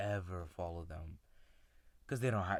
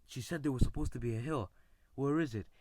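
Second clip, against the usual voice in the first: alarmed; 4 semitones higher, 7 dB louder than usual. Retold or imitated. Kids lost, no hill found.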